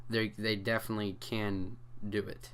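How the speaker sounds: stumbling over the first word; stuttering. Real, not acted. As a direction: trip on the start, then go on. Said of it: "Sorry for all the stuttering".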